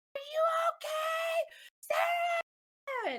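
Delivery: mock very high, stretched-out, drawn-out screaming shout. Retelling how people at the mountain top called down: imitating someone screaming. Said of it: "just screaming".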